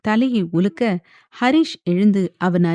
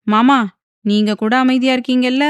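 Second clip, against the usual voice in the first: pitiful plea; 6 semitones higher, 4 dB louder than usual. A narrator's reading. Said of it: "முகத்தை பாவமாக வைத்துக்கொண்டு".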